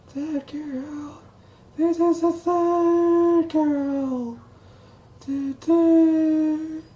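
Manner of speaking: high cartoon mouse, slow and squeaky; Mickey Mouse voice. Shown as a demonstration. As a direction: falsetto Mickey Mouse impression. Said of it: "how I practice my Mickey Mouse voice".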